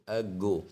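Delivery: अ गो with the stress on गो; stress on second syllable. Shown as a demonstration. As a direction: split अ गो, leaning on गो. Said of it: "stress जो है वो हमेशा second syllable पे".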